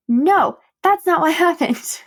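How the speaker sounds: high, amused correction breaking into a laugh; gleefully puncture the happy ending; laughing denial. Real, not acted. Vlogger owning up to listeners, laughing denial.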